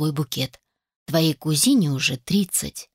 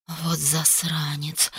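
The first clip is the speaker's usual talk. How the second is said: slow, breathy angry whisper; indignant whisper; 3 semitones lower, 6 dB quieter, much slower than usual. Acted. Mother fuming under her breath at her son, slow whisper. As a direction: hiss it out slowly in outrage. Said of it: "возмутилась она".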